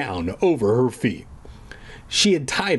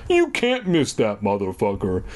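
slow reading; 4 semitones lower than usual. Shown as a demonstration. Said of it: "talking slower somehow makes it so I can't read as well".

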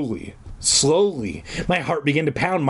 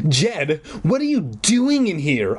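mild shriek; 3 semitones higher than usual. Acted. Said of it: "I shrieked".

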